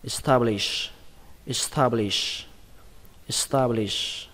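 establish run together as one word. Shown as a demonstration. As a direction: say establish at normal speed, syllables joined. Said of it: "đọc nhanh là". (đọc nhanh establish, liền một từ)

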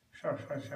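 a smooth flowing sh with the tongue curled; fluid retroflex sh. Shown as a demonstration. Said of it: "a very fluid and mellifluous".

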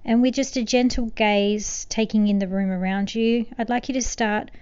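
gentle, unhurried meditation guidance with long pauses; soothing meditation voice, lightly hushed; guided meditation. Acted. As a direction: ease the listener into calm, softening toward the ends of phrases.

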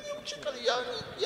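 high, squeaky mock-panicked excuse. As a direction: squeak it out like a scared driver. Panicked driver excuse, quoted. (piskliwe, spanikowane tłumaczenie)

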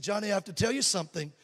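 soft, quick hushed voice, half-whispered; imitated whisper. Girlfriend confiding in his ear while dancing, hushed. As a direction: lean in and confide it softly. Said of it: "she whispered in my ear".

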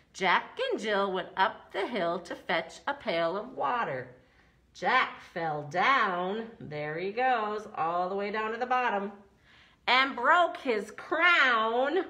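nursery rhyme recitation. Pretend.

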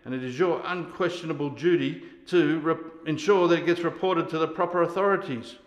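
loud formal military report, building in volume; forceful official declaration. Acted. Sergeant orders soldier to report him, loudly official. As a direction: announce it like a charge being read out.

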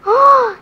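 big loud delighted gasp; excited gasp. Real, not acted. Child spots a sparkly dot on camera, gasping loudly. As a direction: gasp with real delight at the find.

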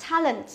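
"talent" with a wide, open A as in "cat"; flat E sound. Shown as a demonstration. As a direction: spread the first vowel of "talent" into a flat æ. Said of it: "Âm E bẹt".

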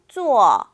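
坐 said as a clean falling zuò; 坐 spoken slowly for students to copy; modeled zuò. Shown as a demonstration. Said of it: "잘 따라 읽어주세요".

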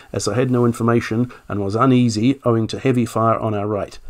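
reading an officer's statement in a light generic British accent. Shown as a demonstration. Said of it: "just do a generic accent".

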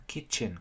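KITCHEN with a very short, weak second syllable; very short vowel. Shown as a demonstration. Teacher asking learners to listen, KITCHEN with very short vowel. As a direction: keep the end of KITCHEN tiny after a stressed KIT. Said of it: "rất ngắn".

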